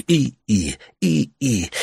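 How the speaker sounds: imitated squeak of turning blades; tedious windmill creak. A narrator's reading. Useless windmills overhead, tedious creaking. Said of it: "скрипели нудно".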